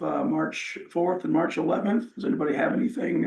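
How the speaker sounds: hoarse, worn-out voice; losing voice. Real, not acted. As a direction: voice going rough and hoarse. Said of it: "I'm losing my voice here".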